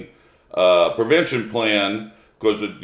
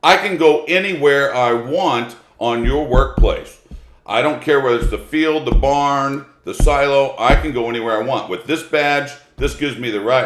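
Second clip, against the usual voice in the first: raised higher, pushy and self-important; indignant inspector; 5 semitones higher, 3 dB louder than usual. Retold or imitated. Inspector bristling at the farmer, indignant and higher. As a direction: lecture the farmer as the official with the badge. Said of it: "the Cal osha inspector goes".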